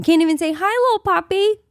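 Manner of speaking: mock puppy talk. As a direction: coo it like baby talk to a dog. Child's thought, greeting a dog.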